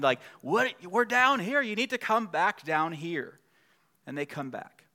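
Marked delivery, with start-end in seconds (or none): 0.4-3.4 mock parent shout. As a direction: play the parent calling the kids back up the beach, then slow down. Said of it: "you start shouting".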